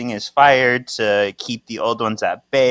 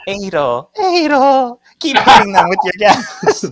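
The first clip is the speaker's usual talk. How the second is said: higher, louder cry to a teammate in a fight; frantic call; 9 semitones higher, 7 dB louder than usual. Retold or imitated. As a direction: yell the name across the battlefield, half-laughing. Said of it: "Tyler go".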